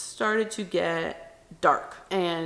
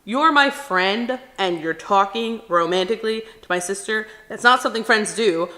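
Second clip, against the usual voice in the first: brother's mock outrage, louder; a fuming friend calling him out; the brother confronting his friend, imitated angrily; retold angry protest; 5 dB louder than usual. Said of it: "all my brother is seeing is red".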